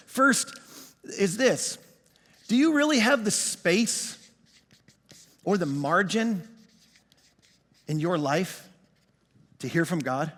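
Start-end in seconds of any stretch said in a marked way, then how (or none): 2.5-10.3 slow searching challenge. Real, not acted. Challenging listeners slowly.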